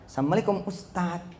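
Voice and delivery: soft greeting, fading away; demonstrated greeting. Shown as a demonstration. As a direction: greet the ustaz gently and quietly. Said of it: "begini cara ngomongnya". (salam pelan dan lembut kepada ustaz)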